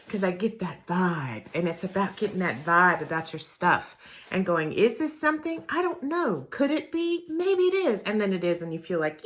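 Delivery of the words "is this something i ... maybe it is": high, questioning self-talk; acted wondering. Shopper debating with herself over a possible find, wondering. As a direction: muse aloud in a higher pitch, weighing the chances. Voicing a hopeful treasure hunter's wondering.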